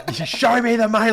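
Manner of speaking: high, loud mock triumphant yell; movie-moment yelling. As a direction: holler it like a film catchphrase, half laughing. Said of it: "like, yelling kind of moment thing".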